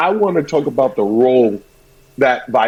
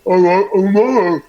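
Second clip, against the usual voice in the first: mock sassy reply; 3 semitones higher than usual. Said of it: "I was talking to her like".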